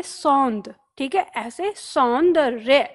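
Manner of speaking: slow, syllable by syllable; slow dictation; split into parts. Shown as a demonstration. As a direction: break the word apart slowly for the class. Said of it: "इसको याद रखिए".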